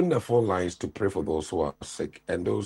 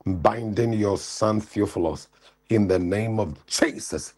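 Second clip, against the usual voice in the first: fervent deliverance prayer, raised pitch; preaching prayer; 3 semitones higher than usual. Acted. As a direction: pray over him with full force. Prays over caller's son.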